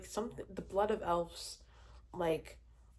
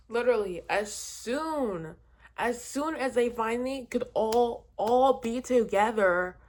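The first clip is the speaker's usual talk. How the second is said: getting louder and louder with annoyance; rising frustration; 3 semitones higher, 8 dB louder than usual. Real, not acted. Vlogger reliving a frustrating ending, building loud rant. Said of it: "this is giving me mad all over again".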